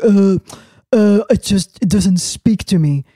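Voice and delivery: imitating the realtor. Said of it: "the dream popper was like".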